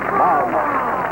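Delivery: host mimicking the doll's crying noise. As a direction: pitch it up like a wind-up doll. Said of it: "and it cries".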